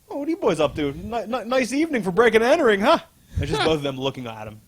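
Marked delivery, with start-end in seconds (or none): 0.1-3.0 high, sing-song taunt of a villain; villain catching trespassers. Retold or imitated. Lex catching boys scaling his building, acted taunting. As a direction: play the villain toying with caught boys.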